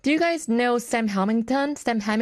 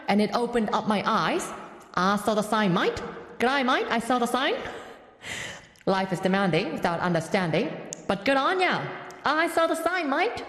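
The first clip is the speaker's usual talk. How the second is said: song lyrics read as Aussie small talk, full of "mate"; Australian accent; 3 semitones higher than usual. Pretend. Radio host reads lyrics to listeners in a put-on Australian accent. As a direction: lay on a hammed-up Australian accent, ending lines on "mate". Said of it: "Sam Hamilton's cousin Samantha".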